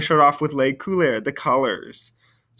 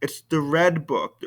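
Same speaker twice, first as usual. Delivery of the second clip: "red" stressed in "It's the red book"; emphasis on "red". Shown as a demonstration. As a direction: lean on "red". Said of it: "not just any old book".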